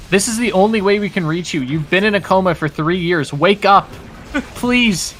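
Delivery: high, pleading wake-up call; dramatic plea. Pretend. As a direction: beg them to wake up from the coma. Mock coma rescue message.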